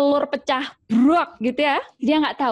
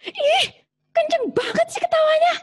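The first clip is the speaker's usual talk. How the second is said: much higher, shrill mock scolding; sudden snapping. Moody mother suddenly scolding her laughing child, much higher. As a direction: flip from sweet to snapping at the kid. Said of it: "tiba-tiba diteriakin itu anaknya".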